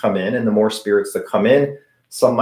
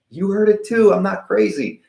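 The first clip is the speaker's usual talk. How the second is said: much higher, excited relief; relieved excitement; 10 semitones higher than usual. Retold or imitated. Telling his wife in excited relief. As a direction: burst out, thrilled it's not just you.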